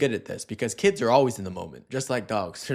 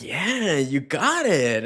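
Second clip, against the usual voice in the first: cheering the dog; 3 semitones higher, much slower than usual. Retold or imitated. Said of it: "you're like".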